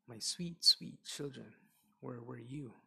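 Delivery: weep it with joy; father cries out to his found children; tearful father. Acted. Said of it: "He cried and cried".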